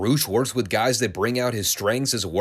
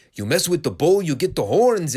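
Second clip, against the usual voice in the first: mock Latino accent, pitched up and louder; 6 semitones higher, 4 dB louder than usual. Wrestler hyping up his partner in a mock Latino accent. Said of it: "he does it with the Latino accent".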